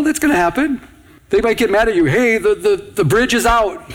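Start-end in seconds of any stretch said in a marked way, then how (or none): 2.1-3.8 calling out the warning with urgency; urgent call. Pretend. Pastor urging people who face danger, urgent call. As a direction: shout it like the danger is real.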